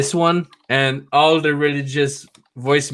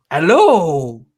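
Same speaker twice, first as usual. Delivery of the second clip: slow, drawn-out dim-witted voice; slow dumb voice; 5 semitones higher, much slower than usual. Retold or imitated. Worker answering that voicemail, slow dim-witted voice. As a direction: play dumb, stretching it out. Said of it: "I speak like I'm retarded".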